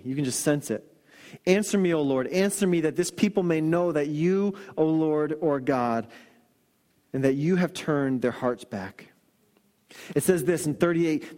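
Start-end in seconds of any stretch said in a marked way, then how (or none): 1.5-9.1 humble plea. Retold or imitated. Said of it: "the plea from God, and then just humility".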